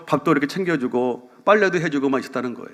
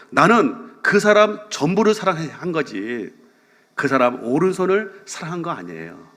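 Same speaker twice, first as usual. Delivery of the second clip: slow sincere quote; 3 semitones higher, slower than usual. Retold or imitated. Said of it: "그러면서".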